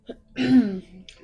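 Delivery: loud throat clear. Real, not acted. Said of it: "that little tickle in your throat".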